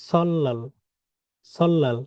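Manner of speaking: সল্লাল with a long ll; Korean word pronounced. Shown as a demonstration. Teacher repeats the word for students, sol-lal. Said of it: "এটার উচ্চারণ কি হবে?".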